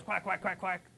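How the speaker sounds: lighter mock duck quacking; mild duck quacks. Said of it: "you'll quack like a duck".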